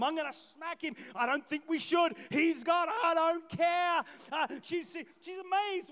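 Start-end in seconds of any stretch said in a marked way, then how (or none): 0.0-4.0 mock shouting, louder at the end; hammed-up furious mother; crazy mum. Mary arguing with Joseph, mock shout. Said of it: "crazy mum".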